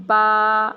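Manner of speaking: با said softly with both lips, not hard; gentle با, lips closed then released. Shown as a demonstration. Teacher showing children a soft با. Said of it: "سختی سے نہیں پڑھنا".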